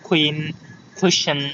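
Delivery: "কুইন", "কুইশন" with puffed k; airy k opening "কুইশন"; aspirated K. Shown as a demonstration. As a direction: say "কুইন" with a kh onset. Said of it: "এই যে এগুলো সব খ".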